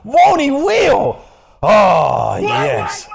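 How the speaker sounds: hollered praise-break shout; church exclaim. Real, not acted. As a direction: call it out like a congregation. Church call and response.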